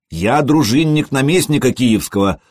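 indignant. Acted. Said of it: "возмутился отрок".

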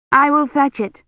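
quick excuse to slip away; anxious young woman. A narrator's reading. Kivrin's voice in story.

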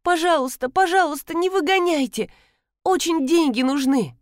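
a fired seamstress begging her boss, tearful and high; tearful pleading. Acted. Fired worker begs, crying.

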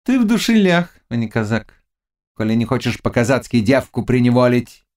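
high goading witch voice; taunting witch. Acted. Witch taunting the Cossack about his manhood, high and goading. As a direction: needle him in a high pitch.

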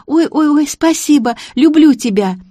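put-on delighted childlike girl. A narrator's reading. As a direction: gush thanks like a happy child. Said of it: "по-детски".

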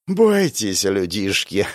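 smirking. Acted. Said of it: "усмехнулась фигура".

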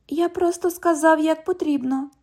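high, mocking imitation of the cop; mocking echo. London echoes the cop's words in a high mocking voice. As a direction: parrot him back to tease. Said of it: "У вас тут що, відлуння?".

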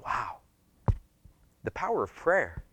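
soft, wondering acted reaction; hushed awe. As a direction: breathe it out in quiet wonder. Acted awe at answered prayer.

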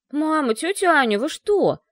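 indignant yell. Acted. Slavka protesting to his mother and aunt, indignant yell. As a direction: protest like a boy insulted by being babied. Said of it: "возмущённо завопил Славка".

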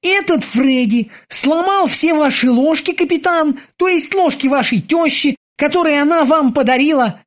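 high, eager sailor's voice; squeaky dutiful boatswain. Acted. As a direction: report to the captain like a keen young sailor. Boatswain Kiki repeats.

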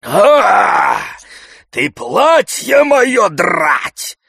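very loud, high, slow cry of outrage; outraged shout. A narrator's reading. Zakhar shouting at the coachman tearing his clothes. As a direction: yell as the shirt is torn. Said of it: "закричал Захар".

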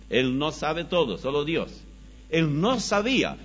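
ordinary talk, nothing marked

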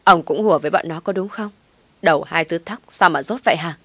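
loud furious yell at her husband; shouting. Acted. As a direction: scream it in scorn. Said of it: "Bà Tâm hét lên".

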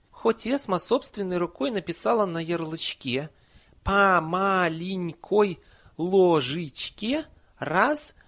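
put-on high, loud old-nanny voice; indignant Nanny. A narrator's reading. Nanny scorns the misread label on the bottle, indignant. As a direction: spell out the dosage slowly, exasperated.

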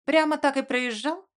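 a dry sarcastic echo of his words; lightly sarcastic disbelief. A narrator's reading. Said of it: "С сарказмом переспросила я".

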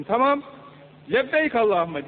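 tiz ve yüksek "Tamam, lebbeyk"; coşkulu cevap. Acted. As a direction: davete hevesle karşılık ver. Davete icabet ediyor. (Allah'ın davetine coşkuyla icabet eden mümin)

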